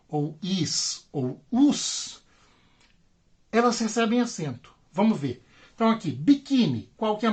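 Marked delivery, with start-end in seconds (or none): 6.1-6.9 biquíni with weight on QUÍ; stress on middle syllable. Shown as a demonstration. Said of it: "mais forte de biquíni".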